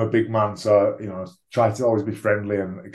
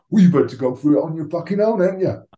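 higher-pitched mock London accent; bastardized London accent; 7 semitones higher, 3 dB louder, faster than usual. Teammate from Lewisham reacting to the news, mock London accent. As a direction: put on a mangled London accent, rising as it goes. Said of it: "weird bastardized accent".

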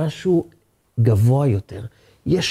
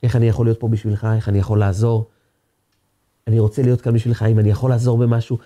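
kind, caring offer; 3 semitones lower, faster than usual. Retold or imitated. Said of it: "בצורה טובה".

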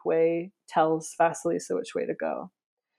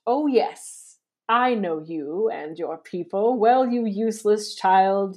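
hint of a snappish old witch; Baba Yaga snapping. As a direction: snap at the child like a witch. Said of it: "Baba Yaga snapped".

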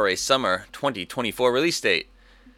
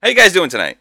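villain host voice; 5 dB louder than usual. Acted. Villain host persona welcome.

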